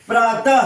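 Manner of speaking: प्रातः ending in a breathed h; visarga like ह. Shown as a demonstration. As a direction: sound the end of प्रातः like ह. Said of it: "इसका उच्चारण ह की तरह होता है". (प्रातः के अंत में ह जैसी ध्वनि)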